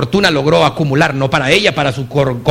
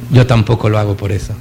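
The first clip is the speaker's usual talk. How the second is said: the same line again, much lower and hushed; soft repeat; 12 semitones lower than usual. Retold or imitated. Speaker repeats Mother Teresa's answer to the room, hushed. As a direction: echo it softly, letting it sink in. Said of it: "sonríe y le dice".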